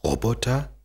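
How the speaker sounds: a rising, puzzled echo; verwundert. Acted. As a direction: repeat the strange word, baffled. Bear echoes unknown word. (der Eisbär fragt verwundert „Roboter?“ nach)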